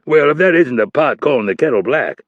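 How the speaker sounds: loud gruff roar of laughter. A narrator's reading. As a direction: bellow it out, amused. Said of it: "Hurley roared".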